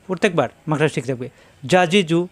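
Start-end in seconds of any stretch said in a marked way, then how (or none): 1.6-2.3 যা, জি, জু as short syllables in a quick run; no delay. Shown as a demonstration. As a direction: rattle off যা, জি, জু with no held vowel. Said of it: "কোনো দেরি করা যাবে না". (দেরি না করে ছোট করে যা, জি, জু)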